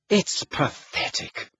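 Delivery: high, slow, furious disgust. A narrator's reading. Hermione rounding on Ron about Fleur, furious. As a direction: draw it out in high-pitched fury. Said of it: "said Hermione furiously".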